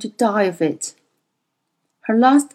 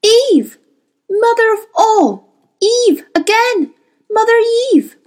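high, loud anguished cries; agonised, tearful outburst; sobbing stammer; 13 semitones higher, 6 dB louder than usual. A narrator's reading. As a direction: wail the words out through sobs. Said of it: "stammered Lena Felt, sobbing".

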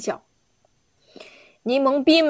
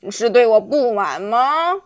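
loud, threatening royal bark; bully the old man with every word; the king threatens old onion, loud and menacing; 3 semitones lower, 4 dB louder than usual. Acted. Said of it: "凶神恶煞地说".

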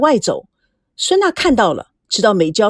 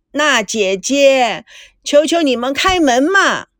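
whiny crying tone; 3 semitones higher than usual. Acted. Meijiao begging the pair to open the door, mock whiny plea. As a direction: beg like a sulking little sister. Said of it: "她哭腔哭调地说".

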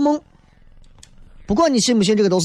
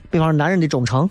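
laughing. Real, not acted. Punchline through laughter.

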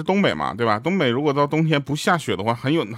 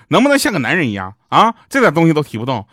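retold shout; 5 dB louder than usual. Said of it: "一女的大喊说".

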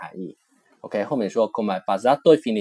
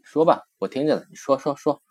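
eager urging; 5 semitones higher than usual. Shown as a demonstration. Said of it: "就相当于中文说".

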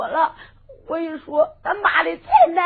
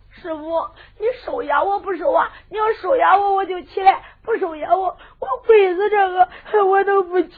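tearful begging. Acted. Kneeling disciple begs to be accepted.

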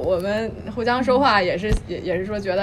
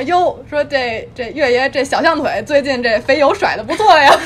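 teasing husband; 3 semitones higher, 4 dB louder than usual. Retold or imitated. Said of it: "我那老公每次见了他".

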